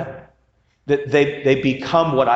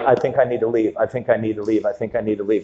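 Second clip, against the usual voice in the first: nervous repeating; 4 semitones lower, faster than usual. Retold or imitated. Preacher retelling her panic on the ride, softening mock fear. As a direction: repeat it, fading, half-joking panic before the ride. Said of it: "I'm like".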